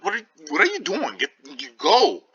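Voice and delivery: high, fast, alarmed push; urgent hurry. Acted. Benvolio urges Romeo to flee, high and hurried. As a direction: hustle him out the door in a panic.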